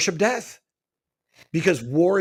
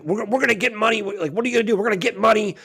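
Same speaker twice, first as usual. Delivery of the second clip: higher, gleeful mocking of the plotters; mock villain boast; 5 semitones higher, much faster than usual. Mocking the elites' plan to a friend, gleeful villain voice. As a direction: parody them like cartoon bad guys.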